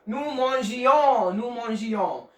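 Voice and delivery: mangions said "mon-zhee-yo"; nous mangions, soft g gliding into "yo". Shown as a demonstration. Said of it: "now it sounds good".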